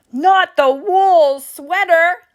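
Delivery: horrified cry. Acted. Skipito horrified about bully.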